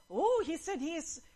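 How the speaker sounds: high, mocking crowd jeers; retold jeering, pushed up high; insulting taunts. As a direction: taunt with rising pitch, goading. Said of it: "Insulto yun".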